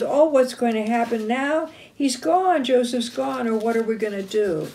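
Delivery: mild storybook dismay, quickening at the end; upset. Retold or imitated. Reuben finds his brother Joseph gone, mildly upset. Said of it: "If they were upset".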